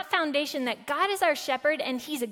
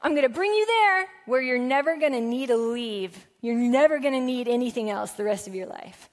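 raised, grand voice of a too-good promise; mock promise of God; 4 dB louder than usual. Pastor voices an imagined God making big promises. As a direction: sell it like an overblown guarantee. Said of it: "does God say".

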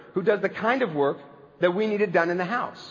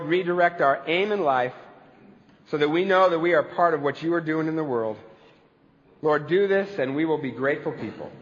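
closing prayer; 2 semitones lower than usual. Acted.

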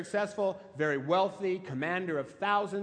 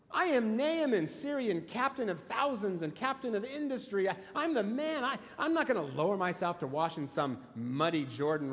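Naaman's hissy fit; 3 semitones higher than usual. Retold or imitated. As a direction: ham up a vain commander's huffy outburst, then let it sink. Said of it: "throws his little hissy fit".

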